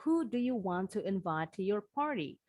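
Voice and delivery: "Who do you want to invite to your party?" falling on "party"; falling question intonation. Shown as a demonstration. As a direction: end "party" as if there were a period. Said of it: "Anggap aja nih tanda bacanya titik".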